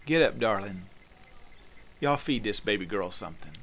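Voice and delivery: put-on lightly folksy Southern accent; tender words in a homely Southern accent; homely own accent. Jesus to the girl and her family, in a homely Southern accent. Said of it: "in their own accent".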